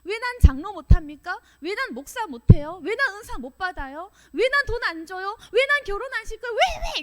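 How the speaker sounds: high, heated string of protests; angry complaining. Acted. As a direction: build from complaint to a high-pitched outburst. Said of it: "이렇게 화내죠".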